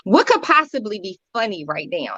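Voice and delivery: mild mock outrage; retold indignation. Griever recalls laughter at the funeral repast, retold indignation. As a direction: replay being offended, halting on "what". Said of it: "And I was angry about it".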